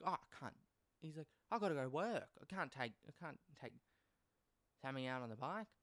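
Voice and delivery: lightly voiced father making an excuse; dad telling the child he has to go to work; dad's excuse.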